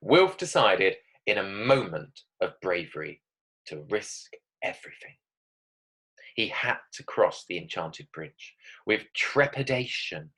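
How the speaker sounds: story narration. Acted. Reads her story aloud.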